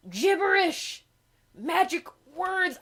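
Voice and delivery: high, loud, tumbling gibberish; frantic mock spell. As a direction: cast a spell in a total panic.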